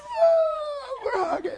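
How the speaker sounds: high, loud, slow ecstatic cry; overjoyed shout. Retold or imitated. Preacher and coworker hugging, ecstatic shout. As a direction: cry out with joy. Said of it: "I said".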